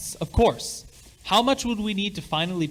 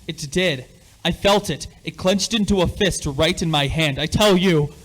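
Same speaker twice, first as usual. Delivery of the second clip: louder, pressing each claim home; insistent; 2 semitones higher, 6 dB louder than usual. Acted. Father insists to his doubting wife that it moved, louder and insistent. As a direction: make her believe you, getting louder.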